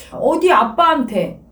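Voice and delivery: a hint of a bullying father forcing his child down; stern father.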